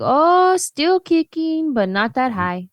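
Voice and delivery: high, bright "Oh" rising from the aunt; elderly aunt. Retold or imitated. Great-aunt answering a phone check-in, high old-lady voice. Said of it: "She'd be like".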